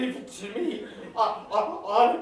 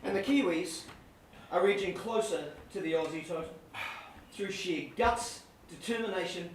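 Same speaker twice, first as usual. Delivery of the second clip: hushed commentary; 6 semitones lower, 8 dB quieter than usual. Acted. Mock-solemn commentary.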